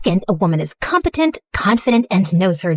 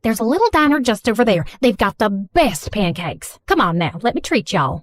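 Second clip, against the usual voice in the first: put-on lightly done Southern mom accent, gushing apology; a hint of a fussy Southern mother; 2 semitones higher than usual. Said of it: "speaking in a thick Southern accent".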